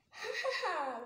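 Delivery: light spoken "ha ha ha"; a lightly voiced fairy giggle; a fairy laughing at Lucy, lightly voiced. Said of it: "laughed the fairy".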